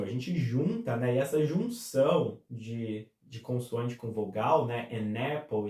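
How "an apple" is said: AN APPLE joined up, "a-napple"; linking sound. Shown as a demonstration. Teacher explaining N joined with A, linking sound. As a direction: glide AN into APPLE with no break. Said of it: "a gente chama isso de linking sound".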